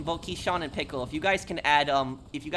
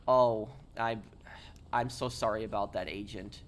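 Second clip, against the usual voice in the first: lower, subdued and sorry; sincere condolences; 3 semitones lower, 3 dB quieter than usual. Real, not acted. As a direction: offer real sympathy in a low, sober voice. Condolences after a death in chat.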